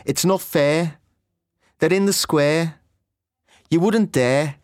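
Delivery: Scouse air vowel in "fair", "square", "dare"; Scouse accent. Shown as a demonstration. A teacher demonstrating the Scouse air sound. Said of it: "the air sound is also special".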